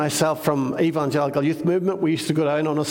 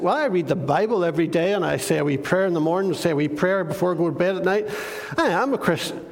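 self-righteous; faster than usual. Retold or imitated. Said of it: "real self-righteous".

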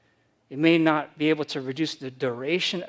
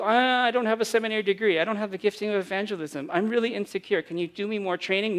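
whiny disciple; 4 semitones higher, faster than usual. Retold or imitated. Mock-whining disciple quote.

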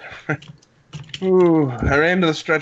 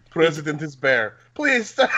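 bad Russian accent; 3 semitones higher than usual. Tortured bear president begs to stop, mock Russian accent. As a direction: beg in a badly faked Russian accent. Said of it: "We're not doing very good Russian accents".

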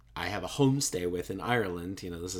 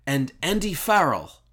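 higher, louder put-on voice for Tom; Tom guessing; 7 semitones higher, 7 dB louder than usual. Tom guessing the speaker's surname, a put-on higher louder voice. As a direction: imitate Tom's confident guess. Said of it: "He goes, he goes".

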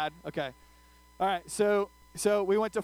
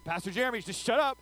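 mock freaked-out friend; 3 semitones higher than usual. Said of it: "she's freaking out".

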